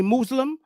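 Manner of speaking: "Muslim" as MOOZ-lim, oo like in moose; his own pronunciation of Muslim. Shown as a demonstration. Vlogger giving the way he says "Muslim": MOOZ-lim. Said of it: "the correct way to pronounce it".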